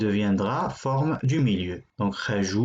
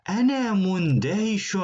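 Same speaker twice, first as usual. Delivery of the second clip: amazed whisper; 6 semitones higher, faster than usual. Acted. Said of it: "Celui-là est étonné".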